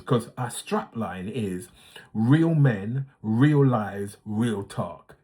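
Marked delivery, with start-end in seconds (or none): 2.1-5.2 light Jamaican accent, punchy slogan. Shown as a demonstration. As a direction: say the strapline with a hint of Jamaican lilt. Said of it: "that little last part was in a Jamaican accent".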